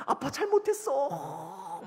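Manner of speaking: high, drawn-out put-on wail; mock crying. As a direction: imitate a child sobbing an apology. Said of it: "막 우는 거예요". (아이가 우는 시늉하듯 길게 늘여 울먹이며)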